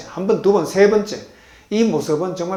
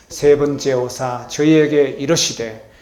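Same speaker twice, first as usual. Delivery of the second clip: congregational reading; 3 dB louder than usual. Shown as a demonstration. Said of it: "다시 다 같이요. 시작".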